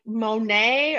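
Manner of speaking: Monet said "moh-NAY"; mistaken pronunciation. Shown as a demonstration. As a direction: say Monet like the painter, stressed on the end. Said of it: "'Cause I thought it was".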